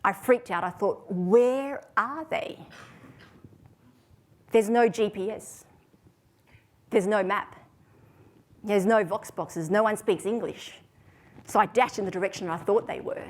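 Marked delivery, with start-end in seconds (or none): 1.1-10.8 drawn-out, mock-panicked wail on the first question, then emphatic; mild acted panic, slow and emphatic; retold panic. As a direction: act out freaking out, stretching the words. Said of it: "and then I panicked. I freaked out".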